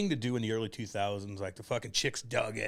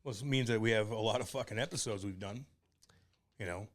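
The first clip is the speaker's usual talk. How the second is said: slightly nasal, stuffy voice; talking with a nasal voice from a sore throat. Real, not acted. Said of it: "you sound a little nasally right now".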